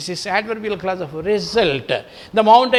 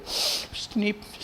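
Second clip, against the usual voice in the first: sniff; 11 dB quieter than usual. Shown as a demonstration. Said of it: "sniffing back".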